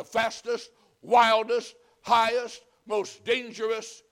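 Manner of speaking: loud, rising hype; excited build-up. Real, not acted. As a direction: pump it up like a thrill-seeker. Building up the scary ride.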